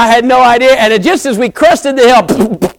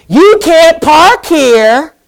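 stern bystander; 7 semitones higher, 4 dB louder, much slower than usual. Retold or imitated. A man scolds at the door.

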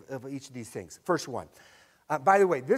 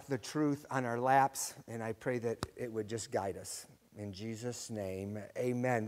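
prayer; 3 semitones lower than usual. Acted. Leads a short prayer.

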